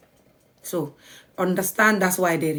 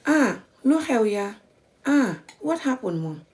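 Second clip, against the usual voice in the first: normal calm; 3 semitones higher than usual. Shown as a demonstration. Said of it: "just like normal face".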